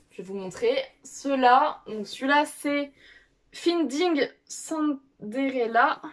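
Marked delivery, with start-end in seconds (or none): 3.5-6.0 "Finding Cinderella" said slowly in a self-conscious English accent; a careful, slow English reading of "Finding Cinderella". Real, not acted. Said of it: "excusez-moi pour l'accent anglais".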